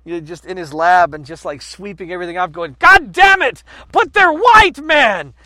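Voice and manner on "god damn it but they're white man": shouting, high-pitched mock outrage; hammed-up furious frustration, far louder and higher; exasperated scientist. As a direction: yell it like a baffled scientist losing it. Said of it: "I just imagine a scientist back in the day".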